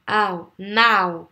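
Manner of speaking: "Ao, now" with an open A gliding into O; diphthong demo. Shown as a demonstration. Teacher drilling the A-O sound, demonstrative "now". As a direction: model the glide "ao", then put it in "now". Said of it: "c'est le A et le O".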